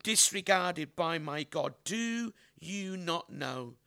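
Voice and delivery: slow, deliberate Bible reading with long pauses; scripture reading. Acted. Preacher reads Isaiah's passage to the congregation, slow scripture reading. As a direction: draw out each phrase of the passage, slowly.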